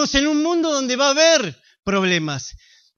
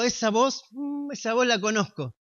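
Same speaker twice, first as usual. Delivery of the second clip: reconocimiento asombrado; 7 dB quieter than usual. Retold or imitated. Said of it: "Pero dijo".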